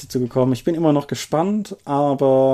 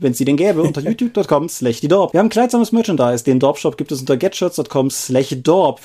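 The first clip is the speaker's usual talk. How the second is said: brisk, bright promo read; announcer read. Acted. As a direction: rattle off the show plugs like an ad. Podcast outro announcement read.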